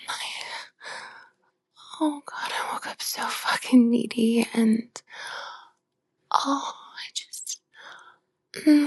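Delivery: moaning intimate whisper; breathy aroused whisper. Acted. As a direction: whisper needily between moans.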